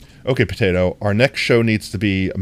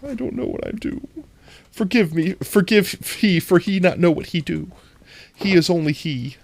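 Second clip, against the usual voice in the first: mock broken-English plea; 9 semitones higher than usual. Mock pleading to chat.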